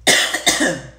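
loud rough throat clear. Real, not acted. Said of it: "got something stuck right there".

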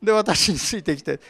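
子供をせかすように大きめの声で指示; 天使がペテロを急かして次々に指図する; bossy angel. Acted. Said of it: "子供に言ってるようなもんでしょう". (寝ぼけたペテロに子供扱いで命令する天使)

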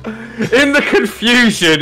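laughing. Real, not acted. Player narrates monster hitting itself.

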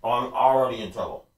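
talking round a mouthful of carrots; cheeks stuffed full. Real, not acted. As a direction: mouth crammed with food. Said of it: "we're gonna put a bunch in".

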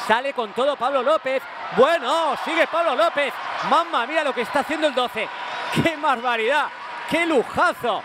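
rising, thrilled play-by-play; excited commentary. Real, not acted. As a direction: marvel at the dribble. Dazzling dribble being called.

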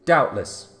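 loud ringing Doubtless; loud declaration. A narrator's reading. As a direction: announce it loudly. Speaker reasons aloud.

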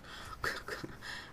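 quiet, breathy chuckle; soft self-amused laugh. Real, not acted. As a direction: laugh softly at yourself. Laughs at own shaking.

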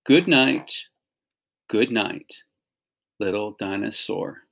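put-on lively storybook read-aloud to kids; animated picture-book reading; reading to children. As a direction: read it like bedtime story time for a class.

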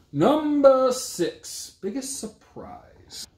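slow, high, loud announce then whispered; game-show reveal tapering to a whisper; announcer call. Real, not acted. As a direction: drawl the number, then hush the title. Announcing the next category.

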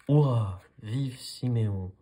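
loud cheering cry; crowd cheering. Acted. The flock cheering the hero duck, loud and joyful. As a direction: shout it like a whole flock cheering. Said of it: "hurla la foule".

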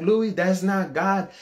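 slow, high-pitched reproach; objecting mother. Retold or imitated. Mom correcting her cursing teenage son, disapproving.

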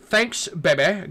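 put-on slow, drawn-out "Thanks, baby." with a rising end; slow pointed repeat. Shown as a demonstration. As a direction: repeat it slowly and pointedly, as if it wasn't heard. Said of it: "I said".

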